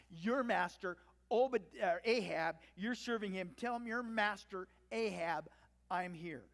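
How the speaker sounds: loud, pointed jab on "master"; testy order with needling emphasis. Acted. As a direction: needle him about whom he serves. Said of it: "it just gets a little bit more testy".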